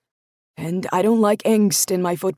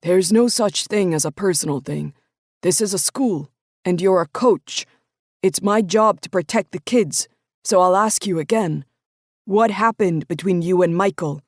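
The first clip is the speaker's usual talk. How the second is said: louder, firm coach laying down the law; a coach demanding the truth, voice raised; stern coach anger; 3 semitones higher, 6 dB louder than usual. Acted. Coach's eyes flashed.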